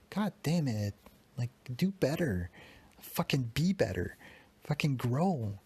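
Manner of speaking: biting scolding of himself; frustrated self-berating; harsh self-talk. Real, not acted. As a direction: scold yourself hard and bitter. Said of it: "I'm talking harsh to myself".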